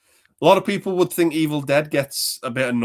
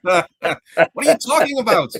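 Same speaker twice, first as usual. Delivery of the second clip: surprised; 12 semitones higher, 8 dB louder than usual. Real, not acted. Reacting to friend's quote.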